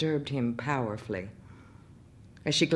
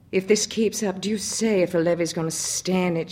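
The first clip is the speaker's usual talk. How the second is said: worried, raised voice; anxious exclamation; 4 semitones higher, 5 dB louder than usual. Acted. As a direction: fret aloud about the storm. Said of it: "she exclaimed".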